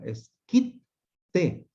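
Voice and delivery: kit said high, then T split off; syllable demo. Shown as a demonstration. Teacher showing the doubled consonant, split into syllables. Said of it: "producir la otra sílaba".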